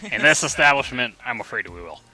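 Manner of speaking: unhinged butler, loud then hushed; deranged voice. Acted. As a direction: make him a little deranged. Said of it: "My voice for him is slowly getting more and more deranged".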